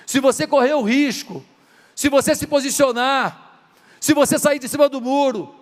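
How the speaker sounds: rising sermon urging the congregation to act; preaching. Acted. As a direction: drive the call home from the pulpit. Builds to preaching climax.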